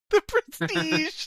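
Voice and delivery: dramatic movie-trailer title. Acted. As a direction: stretch it like a trailer reveal.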